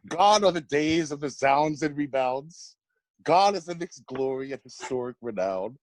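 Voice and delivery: measured rhyming recital, landing each rhyme; spoken poem. Real, not acted. Friend reading a birthday roast poem about the Knicks, spoken poem. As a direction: read out a mocking verse with deliberate phrasing.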